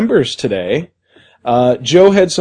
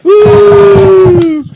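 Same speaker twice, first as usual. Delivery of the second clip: loud high whoop; excited whoop; 8 dB louder than usual. Real, not acted. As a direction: cheer it out. Host cheering.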